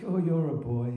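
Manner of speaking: put-on high, loud old-timer's praise; Len B impression. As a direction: imitate an old Croydon character chuffed with a friend. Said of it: "I could actually impersonate him to a T".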